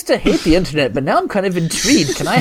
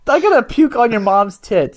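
laughing threat; 3 semitones higher than usual. Acted.

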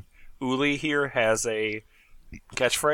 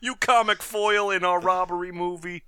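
bank robber; 4 semitones higher than usual. Acted. Robber scolds cohort.

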